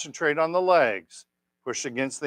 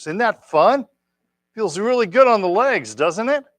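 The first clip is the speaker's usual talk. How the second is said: cheerful; 7 semitones higher, 6 dB louder than usual. Real, not acted. Teacher cheering class after exercise.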